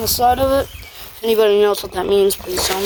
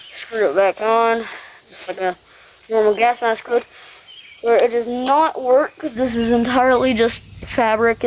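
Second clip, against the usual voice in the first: muffled inside a full head mask; through a gas mask. Real, not acted. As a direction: talk through the fabric mask. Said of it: "I'll put it on".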